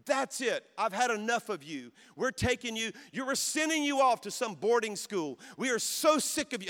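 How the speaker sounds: mock yelling dad berating his son; imitating a furious dad. A dad in front of the police lays into his son, in a rising angry rant. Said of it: "I'm just screaming at him".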